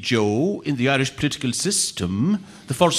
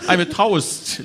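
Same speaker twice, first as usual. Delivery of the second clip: laughing; 9 semitones higher, slower than usual. Real, not acted. Politician jokes laughing.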